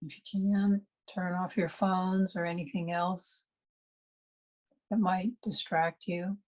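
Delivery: unhurried meditation guide with long pauses; calm meditation instruction, spaciously phrased; guided meditation. Real, not acted. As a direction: guide listeners gently inward, pausing between phrases.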